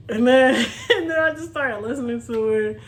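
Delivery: real laughter at her own story; amused, giggling confession; laughing. Real, not acted. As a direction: chuckle through the line. Laughs retelling the outcome.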